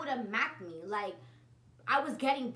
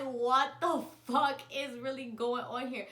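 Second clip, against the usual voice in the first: disbelief; 4 dB louder than usual. Retold or imitated. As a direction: drag it out, stunned by what you hear. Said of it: "I'm just sitting in the back like".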